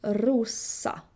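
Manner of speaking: Rosa with a hissed S, no Z; hard S. Shown as a demonstration. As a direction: keep the S in Rosa sharp and unbuzzed. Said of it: "S in Swedish is always hard".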